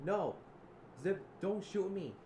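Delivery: loud, high-pitched begging; acted panicked plea. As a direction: cry out as if held at gunpoint.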